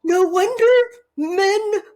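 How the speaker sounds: high, loud, stretched-out words of amazement; half-laughing, half-crying outburst. Retold or imitated. To the host, retelling her rage discovery, loud stretched disbelief. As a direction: drag out men and emotions in disbelief. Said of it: "And I was like".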